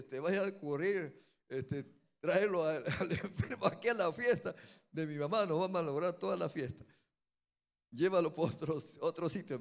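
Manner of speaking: loud, worried, fast-talking plea; worried protest. Retold or imitated. Brothers begging the pastor not to spoil the party, loudly worried. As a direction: urge him to take the madman elsewhere.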